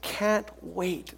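slow, drawn-out eagerness; enthusiastic. Acted. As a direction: stretch each word with eager conviction. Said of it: "this is enthusiasm".

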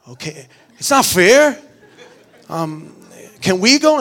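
put-on whiny kids. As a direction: whine like left-out kids begging to come. Kids protesting being left out.

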